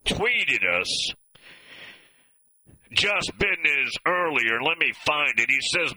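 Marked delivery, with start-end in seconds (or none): 3.4-3.9 "business" pronounced "bidness"; Southern "bidness". Shown as a demonstration. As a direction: say "business" as BID-ness. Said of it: "not business. Business".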